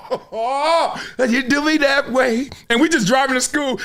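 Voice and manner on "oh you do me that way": put-on high, slow little girl voice. Dad imitating his six-year-old singing in the car, high. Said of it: "With a girl voice".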